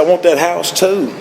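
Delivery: high, gleeful demand; playful God. Retold or imitated. God taking the alcoholic's house, playful. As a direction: claim it in a high teasing voice.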